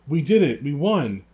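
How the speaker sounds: high, loud jubilant yell. A narrator's reading. Ron waving the Cup beside himself, yelling in triumph. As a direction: cry out the victory. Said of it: "yelled Ron".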